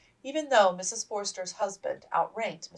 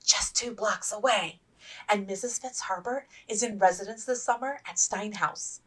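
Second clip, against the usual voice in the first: bright, delighted, ending much higher and louder; thrilled to announce the fun; gleeful; 7 semitones higher, 4 dB louder than usual. Acted. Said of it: "clapping her hands to applaud".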